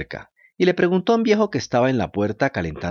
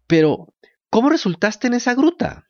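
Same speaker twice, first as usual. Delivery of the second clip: put-on curious little wooden boy; high puppet voice; 12 semitones higher than usual. A narrator's reading. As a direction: ask it in a high small voice. Puppet asks the dog.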